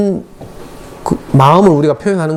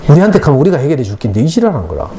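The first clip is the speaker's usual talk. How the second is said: laughing through the quote. Retold or imitated. Quoting officers, laughing.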